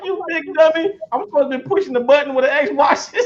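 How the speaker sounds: high, self-mocking through laughter; laughing at himself. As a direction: scold yourself while cracking up. Mocking himself for his mistake.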